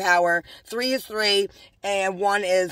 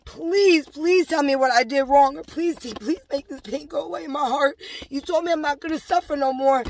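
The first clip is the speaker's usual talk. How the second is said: pleading prayer; 3 semitones higher than usual. Retold or imitated. Woman recalls praying over the Bible, pleading. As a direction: beg as if praying through tears. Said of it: "I'm hysterically crying on the Bible, praying".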